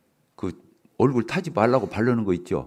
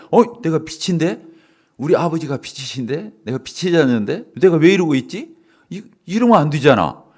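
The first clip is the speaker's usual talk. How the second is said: inner voice waking up; 4 semitones higher, 4 dB louder than usual. Retold or imitated. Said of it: "이러면서 정신 바짝 차리고".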